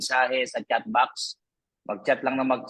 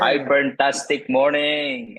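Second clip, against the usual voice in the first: called out slowly and louder, stretching iFerntastic; loud greeting; 4 dB louder, slower than usual. Real, not acted. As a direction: greet the whole Zoom room with energy, drawn out. Opening greeting to Zoom audience. (malakas at mabagal na bati)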